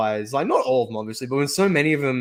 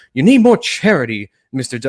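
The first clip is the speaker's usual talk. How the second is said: mock indignant rebuke; 7 dB louder than usual. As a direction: scold him with hammed-up piety. Acted scolding reply in the skit.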